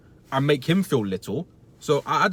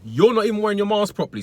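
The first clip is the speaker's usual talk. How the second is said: higher, louder, telling-off voice; retold shout; 7 semitones higher, 4 dB louder than usual. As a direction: tell him off firmly. Retold shouting match at customer.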